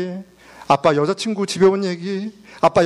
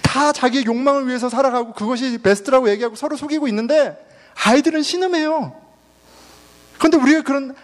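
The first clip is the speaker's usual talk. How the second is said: high-pitched, urgent lament; impassioned preaching; 5 semitones higher than usual. Real, not acted. Preacher lamenting shattered families to congregation, impassioned and high. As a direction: cry out against broken homes from the pulpit.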